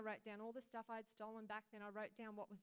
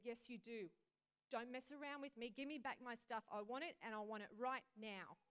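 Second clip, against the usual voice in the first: louder, firm impatient rebuke; don't let him wriggle out; stern demand; 5 dB louder than usual. Acted. Jesus voiced demanding his stuff.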